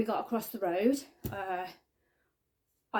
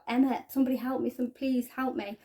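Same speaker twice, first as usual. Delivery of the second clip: hurried, slightly raised plea, mildly panicked; retold panic; 3 semitones higher than usual. Friend begging for help as she collapses, mildly panicked retelling. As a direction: imitate a friend's frantic cry for help, restrained. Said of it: "she was in sheer panic".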